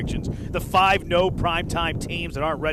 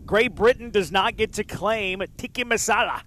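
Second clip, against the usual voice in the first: put-on Spanish accent; 5 semitones higher, 3 dB louder, slower than usual. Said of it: "Not sure why I said that with a Spanish accent".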